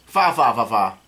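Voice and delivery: spoken mock laugh, falling at the end; odd character laugh. Tribble lookalike's new laugh, read-out mock laugh. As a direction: imitate a villain's laugh syllable by syllable. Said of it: "That's his new laugh".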